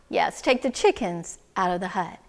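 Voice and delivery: low, even advice; calm instruction. Acted. Wise woman instructing the excited man, calm. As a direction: answer steadily, pitched low.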